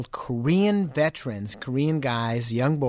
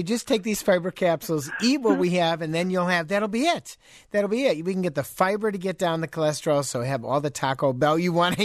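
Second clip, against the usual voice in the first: higher-pitched, lightly acted sales patter; mock fast-food pitch; 4 semitones higher than usual. Host imagining Taco Bell handing out fiber capsules, mock sales pitch. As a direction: playfully pitch a too-good-to-be-true offer.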